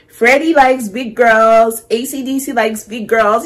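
gleeful shout-out; excited cheer. Real, not acted. Cheering along with the song.

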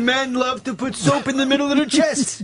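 lightly voiced gruff actor; a hint of Harvey Keitel doing Bruce; mock Keitel voice, barely shifted; Harvey Keitel impression. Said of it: "That was him. That was Harvey Keitel".

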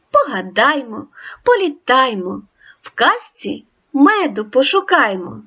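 sing-song rhyme read with rising lilt; playful poem reading; poem recitation. Acted. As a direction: recite it like a children's verse.

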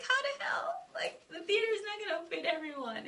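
high incredulous whisper; shocked whisper. Retold or imitated. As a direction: gasp it out in disbelief. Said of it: "I was like".

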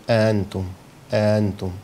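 أأنتم with the second hamza softened between hamza and fatha; eased hamza. Shown as a demonstration. Teacher demonstrating the eased hamza in أأنتم to students. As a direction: blur the second hamza of أأنتم toward a plain vowel. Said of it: "بين الهمزة والفتحة".

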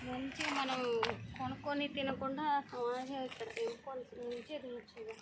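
softly, too quiet for the listener; real low voice. Real, not acted. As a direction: keep your voice down outdoors by the road. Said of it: "గట్టిగా మాట్లాడు". (నిజంగా మెల్లగా, తగ్గు స్వరంతో)

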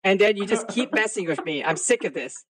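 low, understated mock anger; put-on weary grievance; feigned annoyance. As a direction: play fed up without raising the voice. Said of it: "I'm mad at you".

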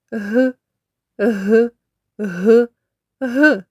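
short breathed "г" repeated with gaps; hard consonant. Shown as a demonstration. Teacher isolating the last sound, hard "г". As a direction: say a lone, unsoftened "г" each time. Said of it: "вимовляється твердо".

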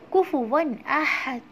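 slow recitation; Quran recitation. Shown as a demonstration. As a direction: recite it slowly. Recitation continues.

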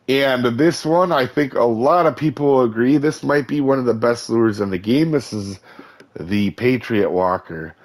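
losing voice, rough and strained; hoarse voice. Real, not acted. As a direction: talk through a worn-out hoarse throat. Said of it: "I'm losing my voice today".

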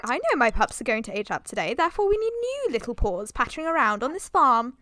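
lightly voiced dog, a bit fast; voicing the dog. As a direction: play the dog's thought lightly. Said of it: "I don't know why I said it like that".

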